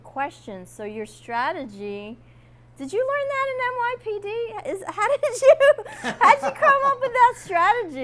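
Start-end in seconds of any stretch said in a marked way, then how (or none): 2.8-8.0 high, laughing through the words; host laughing as she asks her guest; laughing question. Real, not acted. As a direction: ask it while cracking up.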